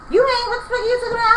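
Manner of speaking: fast, high, heated yell; a sudden burst of retold fury; retold angry outburst. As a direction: fire it back at her all at once. Retold confronting the mocking girl.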